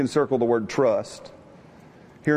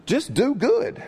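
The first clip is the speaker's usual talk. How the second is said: excited exclamation; 11 semitones higher, slower than usual. Real, not acted. Preacher exclaims punchline.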